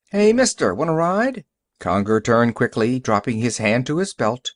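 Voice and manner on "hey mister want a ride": high friendly hail; calling out. Acted. Youngster in a car offers a stranger a ride, calling out. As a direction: call out to a passerby, pitched well up.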